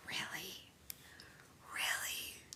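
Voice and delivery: breathy unvoiced disbelief; whispered really. Real, not acted. Teasing a chat comment.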